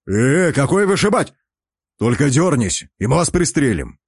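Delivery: lightly voiced gruff soldier; gruff guard commander.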